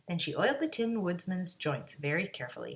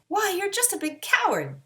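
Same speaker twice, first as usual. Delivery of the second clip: scornful; 11 semitones higher, 4 dB louder than usual. A narrator's reading. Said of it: "said Dorothy".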